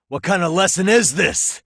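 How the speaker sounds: high, loud, disbelieving cry; incredulous outburst. Acted. Detective confronting old teacher, shocked and loud. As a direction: hurl the question up in shock.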